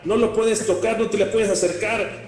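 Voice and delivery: mock outraged referee. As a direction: scold the player as a proud official. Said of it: "y le digo".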